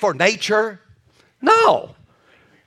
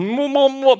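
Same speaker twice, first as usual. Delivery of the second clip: mumbling with mouth blocked; 5 semitones higher than usual. Retold or imitated. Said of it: "They got this thing in my mouth".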